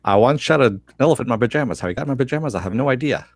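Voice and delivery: quick, lightly voiced Groucho joke delivery; Groucho Marx impression. Cohost answering with a quick, light Groucho impression. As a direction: rattle off the classic line like Groucho, barely changed. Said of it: "That's my Groucho Marx impression in thirty seconds".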